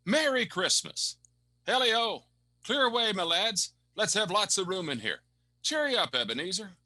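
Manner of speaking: put-on high, loud, booming old merchant calling out; a hearty old master rallying his lads, full of good cheer; jolly Fezziwig. Old employer calling his apprentices to fetch punch, jolly and loud.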